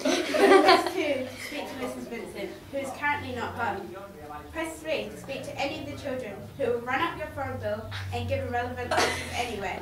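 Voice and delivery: robot voice, even answering-machine tone. Pretend. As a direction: read it like an automated phone menu. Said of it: "Put on your best robotic voice".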